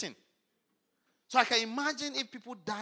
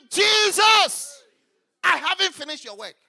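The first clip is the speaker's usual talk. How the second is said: much higher, loud cry of Jesus; retold scream; 8 semitones higher, 14 dB louder, slower than usual. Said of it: "So I scream".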